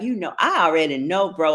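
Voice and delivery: quick, casual Ebonics slang; playful Ebonics aside. Shown as a demonstration. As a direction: slip into street Ebonics for a beat. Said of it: "I can speak Ebonics like".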